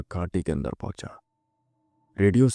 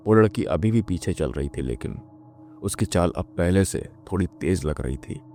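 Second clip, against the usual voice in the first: plain reading voice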